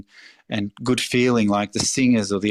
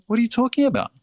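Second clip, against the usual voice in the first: higher-pitched, incredulous protest from a hardworking parent; imitating immigrant parent; 6 semitones higher than usual. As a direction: play the parent who refuses to stop working, pitch up. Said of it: "they would go".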